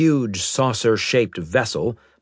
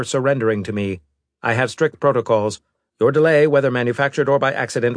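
fast, cold robot voice; a hint of a machine envoy; lightly voiced robot; 5 semitones higher, 4 dB louder, faster than usual.

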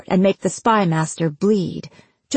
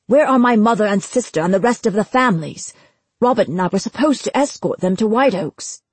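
fast, louder angry accusation; angry outburst; 2 semitones higher, 3 dB louder, faster than usual. Acted. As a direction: fire the questions at him. Hal confronting the spymaster.

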